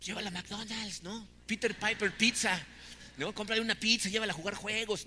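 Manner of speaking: playful hint of a child's voice; little kid's answer. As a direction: mimic a small child's eager suggestions. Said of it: "A un niño de cinco años, ¿qué va a decir?".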